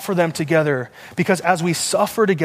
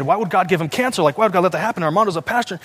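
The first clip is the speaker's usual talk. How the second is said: retold disbelief, pitch rising as it goes; distressed questioning; 3 semitones higher than usual. Reliving his shock at a young cousin's diagnosis, distressed questioning. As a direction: replay pleading, bewildered questions.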